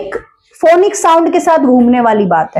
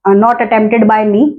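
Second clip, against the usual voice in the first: careful slow answer; 5 semitones lower, much slower than usual. Retold or imitated. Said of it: "ऐसे करके उसने बड़े तरीके से बोला".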